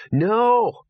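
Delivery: high, sharp hissed no; urgent hiss. A narrator's reading. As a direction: hiss it to stop him. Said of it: "hissed Gaspode".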